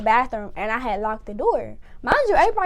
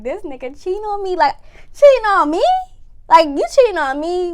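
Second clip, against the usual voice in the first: upset disbelief; 5 semitones higher, 4 dB louder than usual. Retold or imitated. Pacing, upset at discovery.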